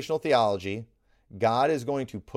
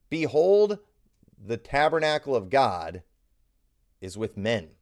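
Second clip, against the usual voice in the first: great voice; 4 dB louder than usual. Acted. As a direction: call it out like a voice from heaven. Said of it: "a great voice out of heaven".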